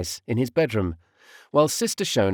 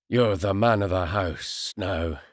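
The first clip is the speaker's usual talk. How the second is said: quivering voice; 3 semitones lower, slower than usual. A narrator's reading. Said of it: "His voice quivering".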